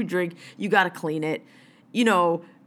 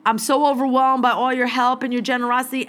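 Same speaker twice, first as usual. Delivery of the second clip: mocking whine. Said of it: "sit there and boo-hoo".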